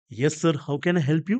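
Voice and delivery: lightly voiced hostess offering help; air hostess. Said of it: "पुन्हा ती येते". (हवाई सुंदरीचा सावकाश, हलका अभिनय)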